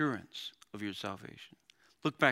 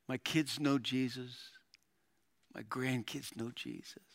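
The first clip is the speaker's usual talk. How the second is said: soft, level, peaceful deathbed voice; dying believer; 6 dB quieter than usual. Retold or imitated. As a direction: confide it gently as a believer near death. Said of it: "get really close to their face".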